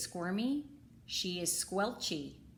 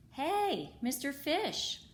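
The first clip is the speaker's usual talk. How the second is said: jellyfish's high greeting; 7 semitones higher, slower than usual. Acted. Jellyfish calls to fish.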